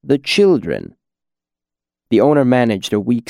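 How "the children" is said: unpleasant edge. Acted. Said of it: "voice had an unpleasant edge".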